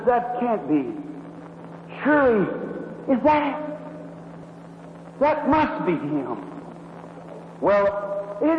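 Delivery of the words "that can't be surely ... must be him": awed woman. Retold or imitated. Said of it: "Oh, she says".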